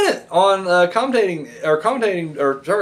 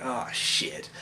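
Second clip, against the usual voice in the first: breathless whispered ah shit; whispered dread; 7 semitones lower, 14 dB quieter than usual. Retold or imitated. Fan whispering to himself as lights go out, hushed dread. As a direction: hush it out in quiet dread. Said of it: "I'm just like".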